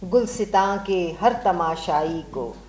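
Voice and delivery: measured, declaimed Urdu verse, each phrase set apart; stately verse delivery with falling line endings; poem recitation. Acted. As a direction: recite a nazm to a mushaira audience, lifting repeated lines. Recites her own nazm.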